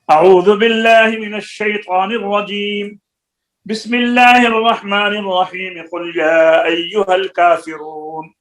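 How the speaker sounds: chanted recitation with a single pause after the opening; pause after the first. Shown as a demonstration. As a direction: pause after the ta'awwudh, then join the basmala to the verse. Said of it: "फसल अव्वल व फसल व वस्ल सानी बिस्सालिस".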